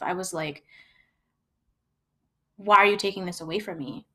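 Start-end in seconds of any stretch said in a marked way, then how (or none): 2.6-4.1 quick, pushy retort, a touch louder; retold aggressive snap. Retelling snapping at her partner, mock aggressive. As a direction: demand the drink back, half-acting the anger. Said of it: "and I was aggressive".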